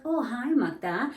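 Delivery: high, slow, friendly hello; cheerful greeting. Retold or imitated. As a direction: welcome her warmly and brightly. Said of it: "And I'll be like".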